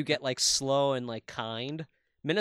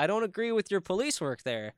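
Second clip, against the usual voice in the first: higher, lightly mocking Minnesotan accent; a touch of polite Minnesotan condescension in the accent; 4 semitones higher than usual. Showing what a Minnesotan would say, mild Minnesotan accent. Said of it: "something a Minnesotan would say".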